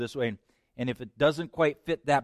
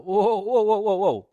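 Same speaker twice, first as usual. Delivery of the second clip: loud high cry to stop; whoa; 8 semitones higher, 7 dB louder than usual. Real, not acted. Preacher cutting off the doubter, loud and high. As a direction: halt them with a cry. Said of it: "preacher stopping the doubter".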